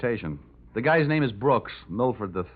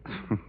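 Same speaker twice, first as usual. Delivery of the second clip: short, soft, dry laugh; dry chuckle; 7 dB quieter than usual. Acted. Johnny answering her teasing, dry chuckle. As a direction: give an unimpressed little chuckle. Mock laugh before "very funny.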